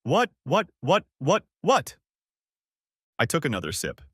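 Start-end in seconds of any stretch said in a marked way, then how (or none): 0.0-2.0 high, louder rapid-fire hissed whats. Acted. Wife hisses at husband's accusation, high and sharp. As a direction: spit the words out in disbelief. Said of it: "then she hissed".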